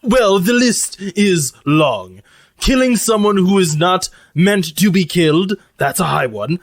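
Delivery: deliberate, lightly pompous character voice; formal robot cook. Acted. Lucy tells crew the crimes of dishonor, mannered formal voice. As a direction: begin a solemn catalogue, weighing each item.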